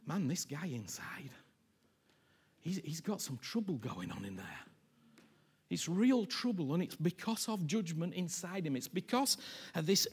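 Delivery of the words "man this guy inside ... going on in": hushed whisper about the son's heart. Real, not acted. Preacher whispering to the congregation about the son. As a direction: drop to a whisper, confiding.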